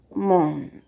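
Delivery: MON, TA, ÑA with long pauses between; montaña broken into three isolated beats; split into syllables. Shown as a demonstration. Teacher showing the example montaña, syllable by syllable. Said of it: "dice montaña".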